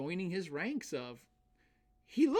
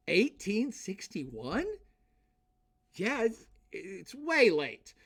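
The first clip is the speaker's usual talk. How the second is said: slow, questioning "Eighteen sixty-one?" with a rise; incredulous emphasis; 4 semitones higher, slower than usual. Real, not acted. Lecturer stressing to students how late serfdom lasted, incredulous. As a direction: stretch it out in disbelief.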